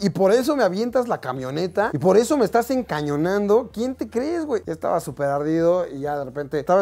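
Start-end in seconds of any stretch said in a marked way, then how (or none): 0.0-4.6 higher, heated mock confrontation; angry challenge. Confronting the marine who aimed at him, heated. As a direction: demand who he thinks he is.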